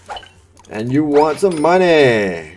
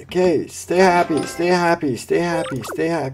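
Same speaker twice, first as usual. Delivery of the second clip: higher, softening stay happy; mock pleading; 6 semitones higher than usual. Gamer begging customers to stay happy, higher mock pleading. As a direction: coax them to keep smiling.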